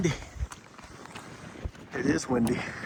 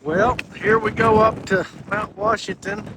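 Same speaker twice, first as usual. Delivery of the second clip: excited; 6 semitones higher, 6 dB louder than usual. Real, not acted. Starting the summit climb.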